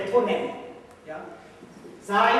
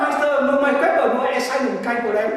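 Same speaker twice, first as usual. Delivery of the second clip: lightly voiced cheeky student, louder; a playful student brushing off the slap, a bit louder and higher; student's reply; 4 semitones higher, 7 dB louder than usual. Teacher plays a student answering the master, lightly voiced. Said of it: "und sag, ah".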